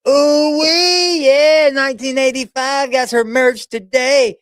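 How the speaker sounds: high, drawn-out happy hype; excited squeal. Real, not acted. Thrilled about merch.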